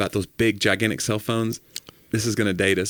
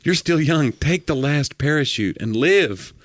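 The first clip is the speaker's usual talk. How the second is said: put-on earnest old preacher; 4 semitones higher, slower than usual. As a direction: say it as a noble sacrifice, slowly. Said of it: "You would be the preacher".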